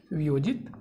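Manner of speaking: word by word with pauses; slow dictation. Shown as a demonstration. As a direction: dictate each word separately for copying. Dictating word by word while writing. (शब्द-दर-शब्द लिखवाते हुए)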